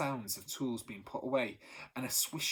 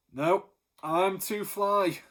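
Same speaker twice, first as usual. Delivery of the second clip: louder, slow, cocky boast; drawn out and loud, proud he can't be fooled; 7 semitones higher, 8 dB louder, much slower than usual. A narrator's reading. Baker boasting to Thunderbolt, loud and slow.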